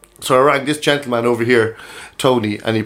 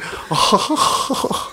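Roy Keane noise; 10 semitones higher, 4 dB quieter than usual. Acted. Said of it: "I can do a Roy Keane accent".

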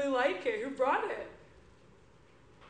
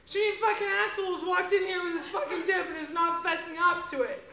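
angry rant. Acted. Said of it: "I'm raising my voice now".

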